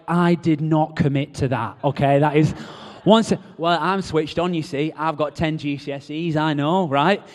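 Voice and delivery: loud, indignant protest; mock defensive boyfriend. Preacher mocks boyfriend's protest, loud and indignant. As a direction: bluster like a boyfriend dodging commitment. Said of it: "the boyfriends are like".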